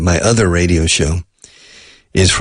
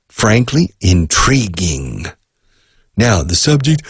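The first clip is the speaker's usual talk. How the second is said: mock formal speech. Shown as a demonstration. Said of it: "if you have to give a speech".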